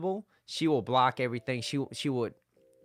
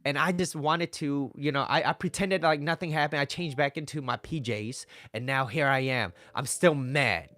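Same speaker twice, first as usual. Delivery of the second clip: put-on aggrieved girlfriend; 3 semitones higher, 3 dB louder than usual. Girlfriend voiced listing grievances.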